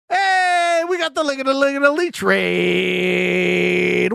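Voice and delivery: high, drawn-out hype greeting; real hype, stretched out slowly; excited raid shout-out. Real, not acted. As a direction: hail the raid with a long high "hey". Streamer hails an incoming raid.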